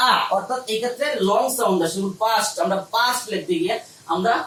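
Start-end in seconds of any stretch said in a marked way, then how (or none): 0.1-0.1 আ stretched as a long open vowel. Shown as a demonstration. Teacher repeats the sound for students, long আ. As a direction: hold আ, don't cut it short. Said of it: "আ সাউন্ডটা কিন্তু একটা long sound".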